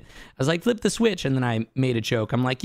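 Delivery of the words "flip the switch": mock scream. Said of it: "I, like, screamed it".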